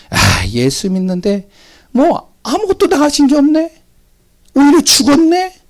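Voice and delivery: rising, taunting sneer; mock the believer's fate; mocking unbeliever. Preacher mimicking scoffers, taunting mockery. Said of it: "이렇게 얘기를 하는 겁니다".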